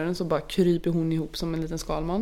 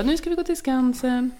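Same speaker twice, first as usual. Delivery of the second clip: put-on cutesy voice for a toddler, higher; sweet-talking; 6 semitones higher than usual. Mother cheering up her toddler at the doctor, sweetly. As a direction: coax the child sweetly. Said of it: "försökte jag vara lite så här gullig".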